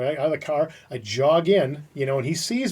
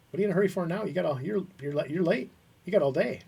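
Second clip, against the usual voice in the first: imitated boss, higher-pitched needling; mock-casual reproach; 5 semitones higher than usual. Boss retold chiding a late employee, mock-casual reproach. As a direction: play the boss chiding without shouting. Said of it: "but he said that, he's just like".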